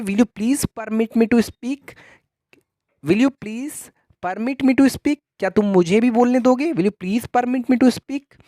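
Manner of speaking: very slow, careful teacher read; slow model phrase. Shown as a demonstration. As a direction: repeat it slowly for students to copy. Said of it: "इस तरीके से आप कह सकते हैं". (धीमा, साफ़ उच्चारण)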